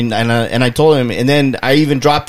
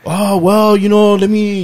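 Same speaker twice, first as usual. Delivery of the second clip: higher, sing-song stalling customer voice; hesitant customer; 7 semitones higher than usual. Retold or imitated. Seller imitating a haggling customer, sing-song and stalling. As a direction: hem and haw like a buyer caught out.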